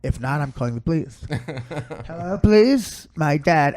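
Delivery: lightly voiced petulant son; mock-aggrieved son making threats; put-on voice of a fed-up son; son imitation. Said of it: "that's how he talks".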